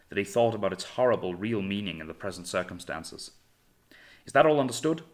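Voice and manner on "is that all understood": sharp, louder and higher demand; grating, strained officer's question; harsh. Acted. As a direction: bark the question at the crew, tense and grating. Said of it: "asked Hornblower harshly".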